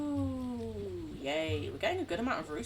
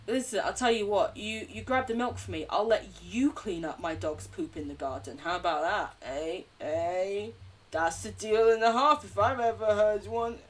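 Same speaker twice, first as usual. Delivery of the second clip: louder haggling voice, selling a bad deal; wheeling-dealing neighbour; 5 dB louder than usual. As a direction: push the deal like a dodgy salesman. Neighbour bargaining over dog poop.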